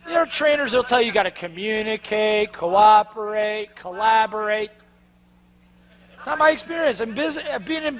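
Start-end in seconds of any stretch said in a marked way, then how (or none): 1.3-4.7 mock drawn out buzzword. Listing trainer buzzwords mockingly.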